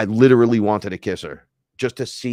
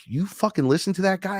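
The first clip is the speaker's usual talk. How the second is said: high-pitched mock incredulity; incredulous question; 10 semitones higher than usual. Imitating a friend asking about that guy, incredulous. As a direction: put it as an astonished challenge. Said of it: "Chris was like".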